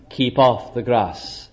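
soft, low and slow keep-off; "Keep off the grass" spoken low and slow; mock warning. Believer telling God to keep off, hushed and slow. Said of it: "where you and I can say".

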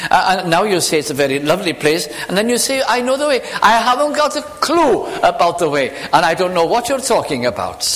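a fed-up disciple who can't follow; impatient Thomas. Retold or imitated. Thomas objecting to Jesus, impatiently and exasperated. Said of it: "I'd imagine it was said, uh, quite impatiently".

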